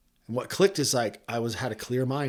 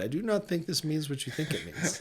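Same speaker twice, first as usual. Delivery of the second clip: laughing movie quote; 2 semitones higher, 6 dB quieter than usual. Retold or imitated. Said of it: "what was that movie, The Princess Bride?".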